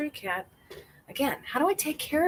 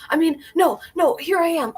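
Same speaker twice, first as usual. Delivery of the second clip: higher, louder flustered defence; mock protest; 8 semitones higher, 8 dB louder than usual. Retelling standing up to the angry line, louder. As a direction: blurt it out, caught off guard. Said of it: "I was like".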